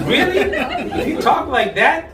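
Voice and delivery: high, laughing disbelief; mock excited. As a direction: go way up, then burst into a shrill laugh.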